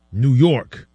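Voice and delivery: a light impression of Omar saying New York with pride; Omar's proud New York. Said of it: "Love how you gotta say it".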